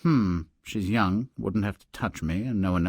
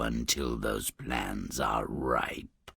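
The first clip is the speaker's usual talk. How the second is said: whisper; 10 semitones lower, 6 dB quieter, much slower than usual. Acted. Death ends his secret plan.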